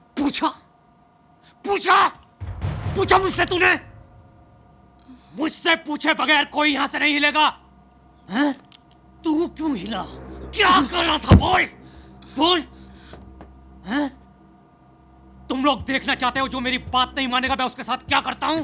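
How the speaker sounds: angry shouting. A character interrogates someone heading to the bathroom, shouting angrily. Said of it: "इतना क्यों चिल्ला रहे हो?".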